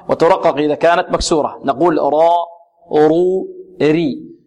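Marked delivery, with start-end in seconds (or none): 2.0-4.3 را and رو with a heavy r, ري with a light one; demonstrated را، رو، ري; heavy and light raa. Shown as a demonstration. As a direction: thicken the r in را and رو, thin it in ري. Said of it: "تفخم إذا كانت مفتوحة أو مضمومة".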